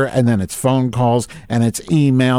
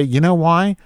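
imagined retort; 6 semitones higher than usual. Retold or imitated. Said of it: "I wanna say".

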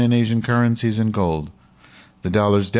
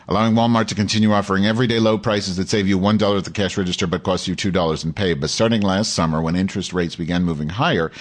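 lightly heightened reading voice, a bit more lift than his asides; article read aloud. Acted. Host reading an article to his audience, lightly dramatic read. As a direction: read the op-ed out like a column on air.

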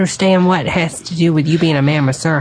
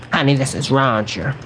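Roger voice. Acted. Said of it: "you were sounding like Deborah, not Roger".

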